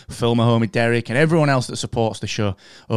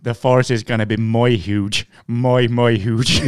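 Trump impression. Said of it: "Trump, Trump, Binks".

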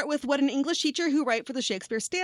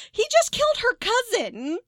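high, louder outrage at the plot; incredulous; 12 semitones higher, 5 dB louder than usual. Real, not acted. Ranting about Romeo's speed, high incredulous squeal. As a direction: squeal it in disbelief.

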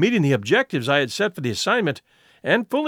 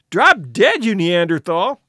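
angry insult; 4 dB louder, slower than usual. Acted. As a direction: hurl it furiously. Insult exchange between students.

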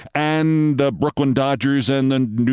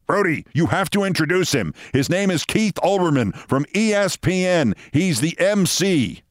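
lightly voiced bossy deputy mayor, pitched higher; a mild mock of an official barking instructions; deputy mayor ordering; 5 semitones higher than usual. Deputy mayor instructing Giuliani, a hint of a raised bossy voice. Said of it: "The deputy mayor now roared at him".

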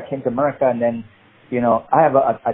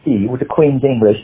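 put-on very high-class English accent, lightly done; Queen's English accent. Actor pitching a villain to casting, Queen's English accent. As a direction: introduce yourself in the Queen's English. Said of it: "a, a very high".

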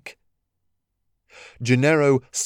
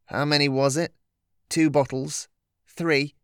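higher teasing trickster voice; sly teasing trickster spirit; 3 semitones higher than usual. Acted.

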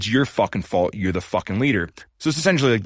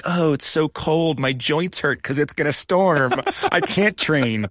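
higher, slow, hammed-up self-pitying whine; mock whiny victim; 5 semitones higher, slower than usual. Mimicking his own self-pitying excuses, slow mock whine. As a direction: moan like a martyr about the cold.

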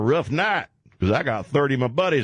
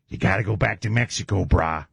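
Dog the Bounty Hunter impression; 4 semitones lower than usual. Host imitates Dog at the border, low and easy. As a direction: talk like a chill surfer tough guy. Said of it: "Dog the Bounty Hunter".

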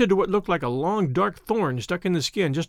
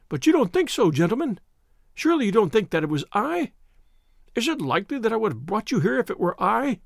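panicky pleading; 4 semitones higher than usual. Acted. Frightened suspect pleads his innocence.

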